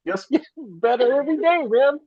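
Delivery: laughing through the words; gleeful laugh, high and quick. Real, not acted. Happy about his trading wins.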